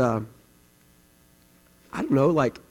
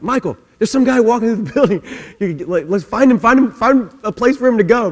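loud, higher, urgent call with a laugh; 8 semitones higher, 7 dB louder than usual. Retold or imitated. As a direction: buzz the assistant to chase the man. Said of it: "I'm like".

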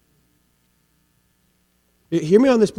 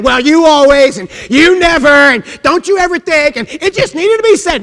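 louder, higher mock scold; mock harsh scolding; 9 semitones higher, 11 dB louder than usual. Pastor mimicking people who tear others down. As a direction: bark it like a nagging critic. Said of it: "quoting harsh talkers".

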